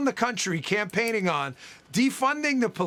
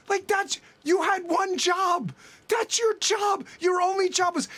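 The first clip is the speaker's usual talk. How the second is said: exasperated shout; 6 semitones higher than usual. Real, not acted. Exasperated rant on failing schools.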